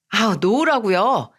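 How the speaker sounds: a daughter-in-law's understated shout, slowed down; mild mock yell. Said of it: "라고 소리를 빽 지르면서".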